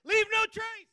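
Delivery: shouted slogan, high and loud; rally shout. Real, not acted. Manager leading the crowd chant, loud shout. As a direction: punch the slogan out. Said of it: "we're gonna do it three times".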